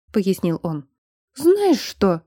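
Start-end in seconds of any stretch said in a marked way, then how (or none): 1.4-2.2 higher, outraged outburst; sharp indignant challenge, higher; indignant exclamation. A narrator's reading. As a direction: burst out at him, higher. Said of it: "возмущённо воскликнула она".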